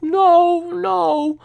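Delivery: high, mock-tearful "no, no"; imitated crying mother. Mother in tears answering son.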